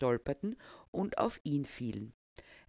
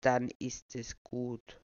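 slow, lightly put-on old voice; a hint of a doddering old man; 2 semitones lower, slower than usual. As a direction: say it innocently, unhurried. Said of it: "den altersschwachen Tonfall beizubehalten".

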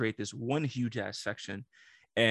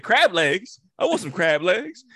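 eager demand; 7 semitones higher, 9 dB louder, slower than usual. Retold or imitated. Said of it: "Nigga said".

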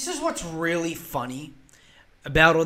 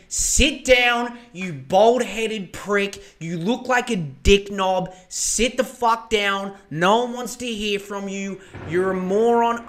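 slow, louder insults from an imagined Albo; mock Albo rant; 3 semitones higher, 4 dB louder than usual. Albo telling Dutton to sit down, hammed-up angry. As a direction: spit each insult out slowly. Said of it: "He would have said".

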